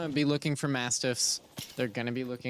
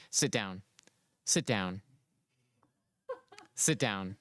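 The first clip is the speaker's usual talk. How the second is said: low, monotone robot voice; 5 semitones lower, 3 dB quieter than usual. Retold or imitated. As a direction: bark it out like a robot. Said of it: "I sound like a robot".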